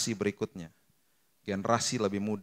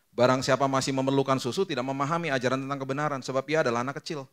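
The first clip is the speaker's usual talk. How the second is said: scripture reading; 3 semitones higher, 3 dB louder than usual. Acted.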